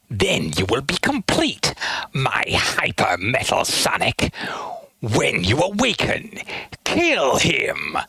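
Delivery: a hint of a menacing robot master; villain voice. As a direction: command coldly, half in whisper. Villain lines from the OVA.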